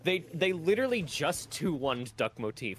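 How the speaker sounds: incredulous. Real, not acted. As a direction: plead in playful outrage. Indignant disbelief at opponents.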